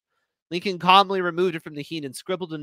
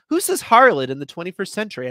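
incredulous; 5 semitones higher, 7 dB louder than usual. Acted. Incredulous retort, loud.

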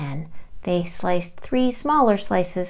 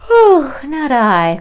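loud quacking duck voice; 6 semitones higher, 11 dB louder, much slower than usual. Acted. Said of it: "quacked the duck".

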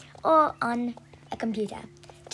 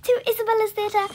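sing-song intro; 8 semitones higher, 6 dB louder than usual. Acted. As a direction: stretch the welcome out like a show host. Channel intro greeting.

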